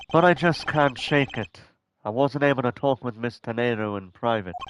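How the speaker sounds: put-on lightly done British accent as Edgeworth; calm, measured British accent. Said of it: "I'm gonna try to do a British accent".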